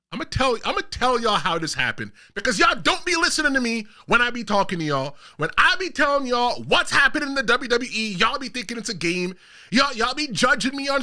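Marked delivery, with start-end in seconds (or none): 0.1-5.1 raised, fed-up call to viewers; shout. Real, not acted. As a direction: scold the audience for not listening. Scolding viewers who don't listen.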